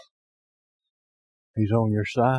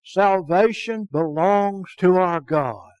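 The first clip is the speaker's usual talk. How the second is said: crying out; 6 semitones higher, slower than usual. Acted. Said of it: "they cried out in a loud voice".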